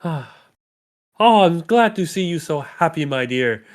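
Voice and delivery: lightly voiced gushing daughter.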